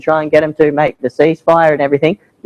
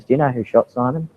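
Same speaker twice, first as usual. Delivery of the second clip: whispered; 4 semitones lower, 7 dB quieter than usual. Retold or imitated. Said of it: "he whispers to me afterward".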